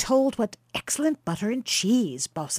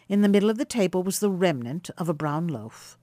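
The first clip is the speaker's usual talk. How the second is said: plain reading voice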